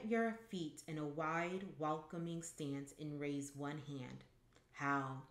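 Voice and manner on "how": lightly intoned, solemn greeting; understated intoning. A narrator's reading. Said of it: "you intone".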